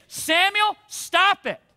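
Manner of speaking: a firm call of Samuel, then stop it; a mild stern God calling Samuel to stop; God's firm rebuke. Acted. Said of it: "I think it would be like this".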